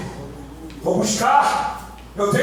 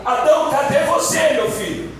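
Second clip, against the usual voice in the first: calling out; 5 semitones higher than usual. Acted. God calls out for hidden Adam.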